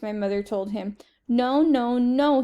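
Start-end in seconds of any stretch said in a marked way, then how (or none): 1.3-2.4 put-on loud toddler no's, louder; child's tantrum holler. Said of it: "he hollered".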